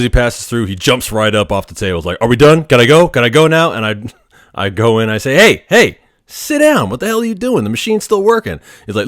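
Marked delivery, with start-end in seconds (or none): 2.2-3.7 higher, louder retold pestering; badgering to be let go, louder; mock-impatient whining to leave; impatient demand. Impatient patient jumps off table. 5.4-8.6 retold alarmed shout at a patient; alarmed yell. Tech yells at patient moving.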